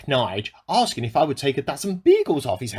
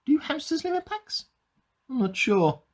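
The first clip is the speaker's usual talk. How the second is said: quiet aside; 8 semitones higher, 5 dB quieter than usual. Acted. Quiet aside question to himself.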